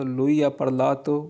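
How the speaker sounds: very slow, each Italian word laid out clearly; slow model reading. Shown as a demonstration. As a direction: read it slowly for learners to copy. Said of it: "teacher models Italian phrase". (धीरे-धीरे साफ़ उच्चारण)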